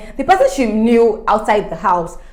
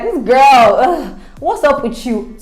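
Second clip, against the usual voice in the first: loud, higher-pitched acted annoyance; mock exasperation; 3 semitones higher, 4 dB louder, slower than usual. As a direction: act out being fed up, slowing on the question. Acted annoyed reaction to Kim.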